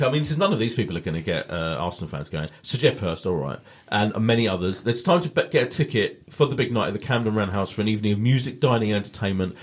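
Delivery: reading sponsor copy with little conviction. Acted. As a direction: read the charity plug like a script. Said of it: "You didn't seem so genuine on that".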